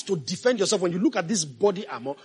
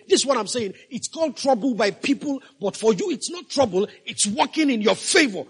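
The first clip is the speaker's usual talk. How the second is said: raised, driving pulpit delivery; impassioned preaching; 3 semitones higher than usual. Real, not acted. Pastor urging congregation to see trouble as working for them, impassioned preaching. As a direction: preach it with urgency, pressing each point home. Preaches scripture with rising force.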